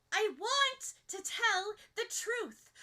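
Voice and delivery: loud, slow, high throw-back; forceful comeback. Acted. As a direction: hurl it right back at him. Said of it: "Ochako throws back, almost as forcefully".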